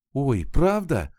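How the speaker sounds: протяжный радостный возглас, громче и выше; обрадоваться вслух, растягивая слова; радостно. A narrator's reading. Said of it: "обрадовалась Тон". (радостное удивление, высоко и протяжно)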